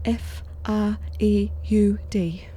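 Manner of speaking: whispered, slow spelling of the letters; hushed spelling to the operator. Acted. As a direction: breathe each letter out quietly.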